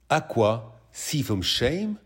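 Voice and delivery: each word drawn out, rising in disbelief; slow disbelieving echo. Acted. Boyfriend slowly echoing his misheard lyric in disbelief. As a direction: repeat it slowly, unable to believe it.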